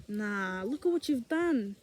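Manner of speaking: low, quiet, discouraging devil; devil's voice. Acted. Devil talking guilty believers out of returning, lightly voiced and discouraging. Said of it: "we're listening to the devil".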